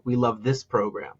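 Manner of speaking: light emphasis on this, then falling; this gently picked out from the sentence; stress on this. Shown as a demonstration. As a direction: lean a little on the word this. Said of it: "go back to that example".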